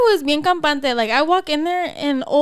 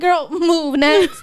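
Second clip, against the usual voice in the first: slow, drawn-out brush-off; acting out fed-up impatience; retold impatient dismissal; 3 semitones higher, much slower than usual. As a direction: stretch it out, mock-exasperated.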